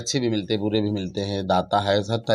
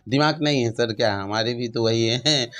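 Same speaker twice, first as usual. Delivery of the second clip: higher, louder, insistent rhetorical questions; real spirited protest; 4 semitones higher, 6 dB louder than usual. Real, not acted. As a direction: push back with raised, emphatic questions. Animated rhetorical retort to personal question.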